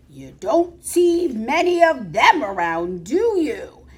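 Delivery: squeezed small-mouthed voice; tiny mouth voice. Acted. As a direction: talk with your mouth pursed tiny. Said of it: "made his mouth small".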